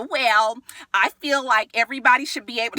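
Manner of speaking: slightly put-on quoted voice; Mimi. Castmate urging everyone to talk it out, lightly imitated voice. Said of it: "my Mimi voice".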